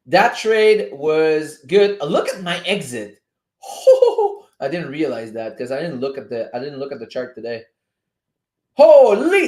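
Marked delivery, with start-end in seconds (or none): 3.6-4.4 very high, loud delighted hoot; amazed hoot. Real, not acted. Trader sees his exit was perfect, amazed high hoot. 8.7-9.5 loud, high burst of amazement; amazed exclamation. Real, not acted. Trader marvels at his well-placed exit, loud astonished cry.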